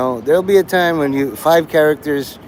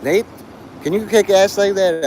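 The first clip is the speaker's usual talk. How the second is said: put-on higher, odd timbre, a teen friend amazed; friend's awed question; 5 semitones higher than usual. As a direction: ask it like a stunned high school kid. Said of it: "he turned to me and says".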